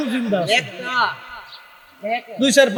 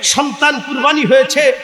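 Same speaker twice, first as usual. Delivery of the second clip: impassioned sermon, punching key words; full-force preaching; 3 semitones higher than usual. Real, not acted. Preacher recounting Imam Husain's patience at Karbala, forceful preaching. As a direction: hammer out each clause to the crowd.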